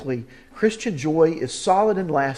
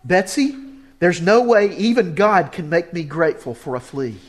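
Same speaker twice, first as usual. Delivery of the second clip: exasperated; 4 dB louder than usual. Retold or imitated. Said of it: "do you ever feel that way".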